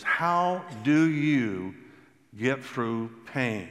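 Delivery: a pained question, dragged out; slow, heavy asking; slow, searching question. Retold or imitated. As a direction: ask it slowly, drawing out each word. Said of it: "one of the ones I get the most is".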